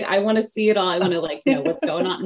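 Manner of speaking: eager curiosity. Retold or imitated. Telling the midwife she wants to see it all, eager and bright. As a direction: sound hungry to see every detail. Retells wanting to see everything.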